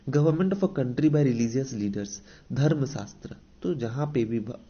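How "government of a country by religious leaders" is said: very slow, word by word, as if for notes; dictating a definition to students; slow dictation. Shown as a demonstration. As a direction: read it out slowly so the class can write. Teacher reads English definition aloud.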